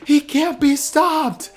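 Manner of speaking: slow, high drawn-out cheer; hyped stadium crowd chanting. Retold or imitated. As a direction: stretch it out like a roaring crowd. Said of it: "cheering, saying".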